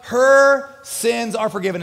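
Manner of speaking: firm pronouncement. Acted. Jesus rebuking Simon, slow and loud declaration. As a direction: declare it for Simon to hear, slowly. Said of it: "this is the best part".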